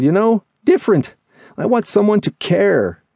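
high character voice, building in earnest longing; disheartened, yearning friend. Acted. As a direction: confide a disappointment, pitch climbing as it goes. Voices Lemmy's disillusioned confession.

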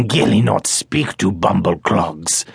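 the small forest creature, eager to please; a hint of a quaint creature; little creature voice. Gilly speaks in creature voice.

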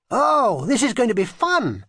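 put-on high, gleeful child's line; grinning glee. A narrator's reading. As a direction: say it through a big grin. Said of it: "grinned Kitty".

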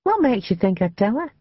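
high, pert comeback; cheeky. A narrator's reading. Maid answering her lover's warning, cheeky and high. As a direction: answer back cheekily, pitched well up. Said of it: "Ruth said cheekily".

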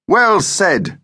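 high, triumphant approval; crowing. A narrator's reading. Father cheers his son's agreement, crowing. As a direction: crow it high with delight. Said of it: "crowed Dad".

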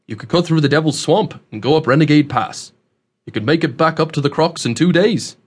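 lightly voiced country local laying out a risky route; folksy twang, with a wry caution; rustic old man, warning. Host offers dangerous shortcut through swamp, rustic warning.

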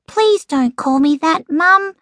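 high, tight, embarrassed plea; strained young boy holding back annoyance; through gritted teeth. A narrator's reading. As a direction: plead with mum through clenched teeth. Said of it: "said Squirt through gritted teeth".

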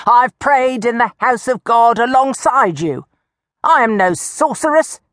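high, righteous protest; indignant old woman. Acted. Old woman defends herself to fellow worshippers, high righteous protest. Accused woman pleads innocence.

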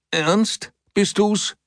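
high call from upstairs; from another room. A narrator's reading. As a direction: call down the stairwell. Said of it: "Da rief von oben eine Stimme".

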